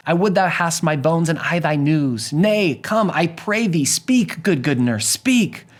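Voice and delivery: high, insistent begging; acted girlish impatience with the nurse; impatient, pleading Juliet. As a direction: plead urgently, leaping up in pitch on each demand. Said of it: "positively dying for her to return".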